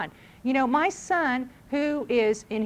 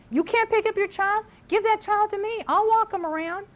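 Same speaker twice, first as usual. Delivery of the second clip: high, louder, indignant appeal; mock indignant stranger; exasperated offer; 9 semitones higher, 4 dB louder than usual. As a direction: demand they hand over the child. Imagined retort to negligent parents.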